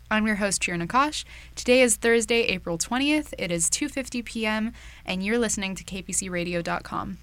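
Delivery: lively scripted show opening, punched at the start; radio host intro. Acted. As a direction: welcome the listeners like a campus radio host.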